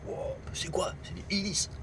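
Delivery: high, soft mock amazement; amazed onlookers. Guys reacting to the shoe wheels, imitated amazement. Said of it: "Oh, les mecs".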